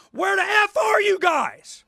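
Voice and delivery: slow, loud, high furious yell; where the hell are you; angry shout. Real, not acted. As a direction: bellow it at people who never show up. Ranting at absent party members.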